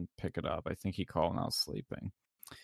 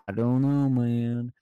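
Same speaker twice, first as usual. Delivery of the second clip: louder, dismissive I don't know man; louder dismissive caller; 7 dB louder, slower than usual. Retold or imitated.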